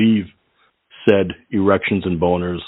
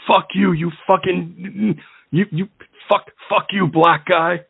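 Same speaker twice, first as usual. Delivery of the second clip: imitating furious Tony; 9 semitones higher than usual. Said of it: "and he's like".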